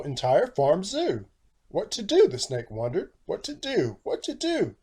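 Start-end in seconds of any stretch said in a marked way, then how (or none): 1.7-4.8 higher, fretting repeated question; the snake frantically wondering; rising panic each time; panicked snake. Acted.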